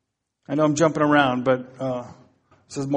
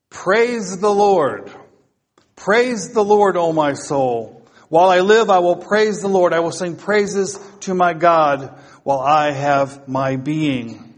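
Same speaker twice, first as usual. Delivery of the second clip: declaimed scripture reading; 4 dB louder than usual. Real, not acted. Preacher reading Psalm one forty-six to congregation, declaimed. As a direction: proclaim it out to the congregation.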